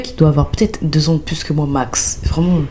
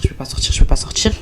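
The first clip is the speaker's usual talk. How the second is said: fast anxious whispered repetition; whispering to herself, lost in the airport; panicked whisper; 3 semitones lower, faster than usual. Retold or imitated. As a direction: mutter it to yourself fast in a panic. Panicking alone near exit.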